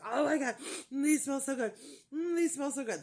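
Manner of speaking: loud, high imitation of delight; all excited. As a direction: gush over the scent, imitating thrilled staff. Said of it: "they were all excited".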